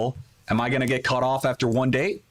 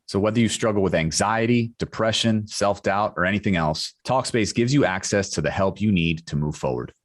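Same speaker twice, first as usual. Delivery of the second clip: measured, lower podcast ad voice; sponsor ad read; 3 semitones lower than usual. Acted. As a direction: read the sponsor copy evenly and clearly. Podcast host reads sponsor ad.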